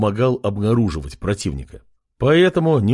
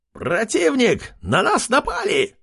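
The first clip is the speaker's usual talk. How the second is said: high, squealing alarm cry; alarmed shriek; 11 semitones higher than usual. Acted. Guard squeals to the village, shrieking alarm. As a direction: pig guard squeals a warning. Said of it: "Раздался визг".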